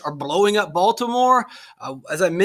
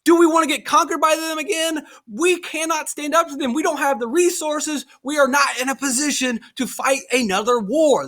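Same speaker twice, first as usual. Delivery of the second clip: higher, worried scolding voice; history teacher voicing alarmed Federalists, higher pitched; mocking Federalists; 6 semitones higher than usual. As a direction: play the panicked doubters, lightly. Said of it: "The Federalists, on the other hand, are saying".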